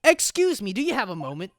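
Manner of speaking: high, loud "excuse me"; insistent call. Acted. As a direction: call out sharply to someone ignoring you. Calls again after being ignored.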